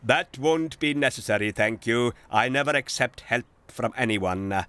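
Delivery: proud. Acted. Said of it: "said the J C B proudly".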